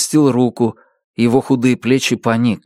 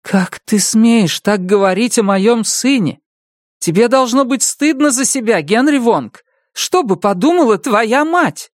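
indignant; 11 semitones higher than usual. A narrator's reading. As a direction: shame him for his words. Mother defends her son. (гневный упрёк)

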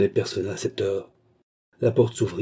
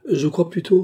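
mildly cold, higher-pitched reply; cold retort; 9 semitones higher, 5 dB louder than usual. A narrator's reading. Bastien coldly challenging Sir Williams on his origins, restrained cold retort. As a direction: answer back with a touch of coldness. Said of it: "répliqua froidement Bastien".

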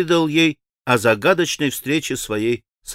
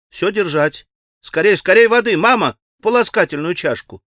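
lightly voiced anxious girl, raised; urgent girl; 5 semitones higher, 4 dB louder than usual. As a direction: rush them all for water.

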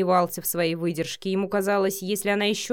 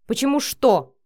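louder, higher angry growl; 5 semitones higher, 7 dB louder than usual. A narrator's reading. Matvey snaps back at Vika's question, angry growl. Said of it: "прорычал Матвей".

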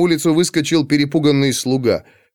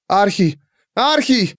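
high-pitched call, rising higher; summoning cry; 7 semitones higher, slower than usual. A narrator's reading. Pandora calling through the half-open door, high cry. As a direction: call the name into the doorway. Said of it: "призывно крикнула Пандора".

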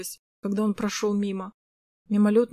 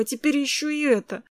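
usual speaking voice

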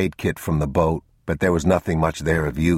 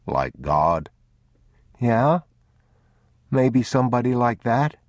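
lightly voiced young boy, higher; a child's questioning voice; 5 semitones higher than usual. Boy and father dialogue in story.

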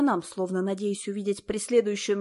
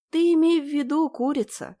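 straining; 7 semitones higher, 5 dB louder than usual. A narrator's reading. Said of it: "кряхтела я".

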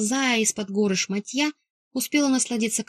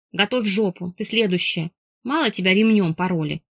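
sing-song drawl. Acted. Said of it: "нараспев протянула".

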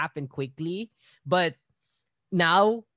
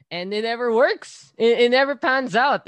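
raised voice, exasperated; louder frustrated complaint; 9 semitones higher, 10 dB louder than usual. Real, not acted. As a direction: let the frustration burst out. Complaining about the cake.

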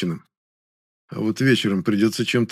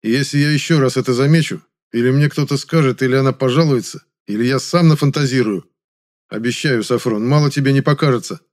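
louder, steady menace; warning a brother to stop; firm threat; 3 semitones higher, 4 dB louder than usual. Acted. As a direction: spell out the warning. Threatening Sofron.

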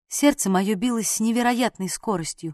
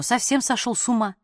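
plain reading voice

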